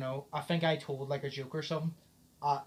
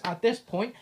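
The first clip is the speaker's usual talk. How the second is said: higher and louder, laughing as it comes out; laughing while telling friend the punchline; 7 semitones higher, 5 dB louder than usual. Retold or imitated. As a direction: giggle through the punchline.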